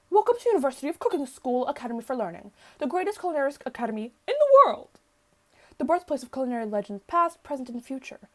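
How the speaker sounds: lightly hammed-up professor's welcome; proud, declaiming academy welcome; rousing speech. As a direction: address the class like a grand orator. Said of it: "interrupts the professor's rousing speech".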